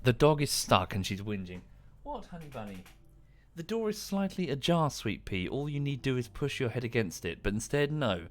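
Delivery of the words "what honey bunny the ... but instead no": pet talk. Real, not acted. Talking to the dog.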